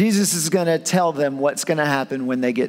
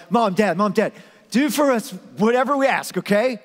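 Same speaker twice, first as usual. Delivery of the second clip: put-on higher, nagging child voice; whiny kids; 5 semitones higher than usual. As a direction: pester mom and dad. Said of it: "if your kids come up to you and are like".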